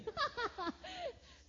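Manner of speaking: high laugh, falling away; real burst of laughter. Real, not acted. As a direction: laugh at your own story. Laughing at her own story.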